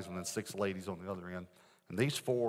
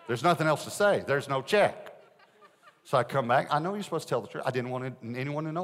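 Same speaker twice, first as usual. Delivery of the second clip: louder, higher, laughing admission; cracking up at the memory; preacher laughing at his own fib, loud; 5 semitones higher, 8 dB louder than usual. Real, not acted.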